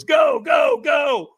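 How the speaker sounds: high, loud urgent shouting; shouted go. Retold or imitated. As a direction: drive him onto the coals. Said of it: "And he goes".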